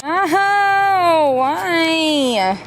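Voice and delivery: high, loud dismayed cry; dismayed surprise. Real, not acted. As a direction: groan out at bad news. Finds a parking ticket.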